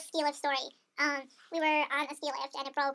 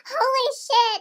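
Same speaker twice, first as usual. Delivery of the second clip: shocked exclamation; 8 semitones higher, 9 dB louder, much slower than usual. Retold or imitated. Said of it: "I was like".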